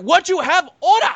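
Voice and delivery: put-on loud, stereotyped East Asian-accented demand; mock Asian accent. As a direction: imitate an impatient server in a hammed-up Asian accent. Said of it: "like, offensive stereotype that I can throw out there".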